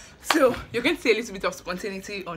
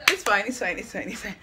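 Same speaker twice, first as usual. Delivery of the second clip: breathless, panicky rush; gasping through the words; hyperventilating. Real, not acted. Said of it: "I'm hyperventilating".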